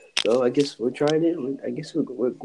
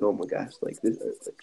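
nervous whisper; 2 semitones lower, 6 dB quieter than usual. Retold or imitated. Nervous inner thoughts, retold.

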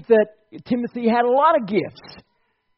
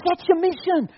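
voicing God; 6 semitones higher, 4 dB louder than usual. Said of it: "God says".

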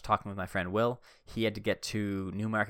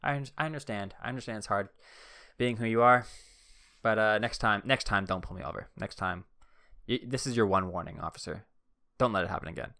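super friendly. Retold or imitated. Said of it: "I was just being super friendly".

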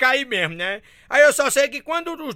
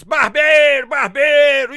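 loud, higher yell of barbeiro; shouting insult; 3 semitones higher, 5 dB louder, much slower than usual. Acted. Drivers in the capital yelling at the clumsy driver, loud jeering. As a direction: jeer at a bad driver. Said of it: "começam a gritar".

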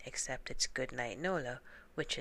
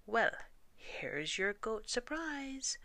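slow, high, far-off goat threat; tough goat voice; 8 semitones higher than usual. Acted. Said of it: "Said Gruff".

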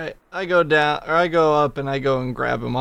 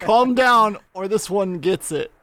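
acted threat; 5 semitones higher than usual. Player threatens stove, holding hostage.

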